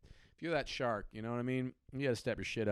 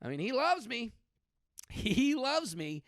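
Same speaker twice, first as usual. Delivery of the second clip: put-on higher-pitched, swooning over a boyfriend; gushing flattered girlfriend; 7 semitones higher than usual. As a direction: gush it, stretching the words out. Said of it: "where you're like".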